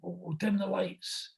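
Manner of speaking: high, hushed, stammering star imitation; Al Pacino. Star plans the show with the host, soft high stammer. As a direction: repeat words softly while working out the plan. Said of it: "he says".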